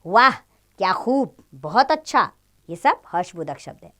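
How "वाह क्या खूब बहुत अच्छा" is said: delighted. Shown as a demonstration. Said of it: "हर्षबोधक शब्द कौन कौन से होते हैं".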